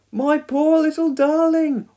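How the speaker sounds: high, loud, drawn-out wail; distraught wail. A narrator's reading. Mother sees Norman trapped at window, wailing. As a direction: wail slowly and high for your child. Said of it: "wailed Dilys".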